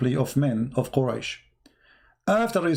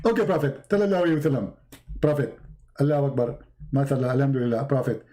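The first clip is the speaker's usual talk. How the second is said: lightly mimicked lisping preacher, falling pious phrases; Zakir Naik as Jibreel; 3 semitones lower, much faster than usual. Angel flatters the prophet, mock-pious preacher patter. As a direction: toss out mock-pious honorifics in short bursts. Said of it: "You look like Zakir Naik".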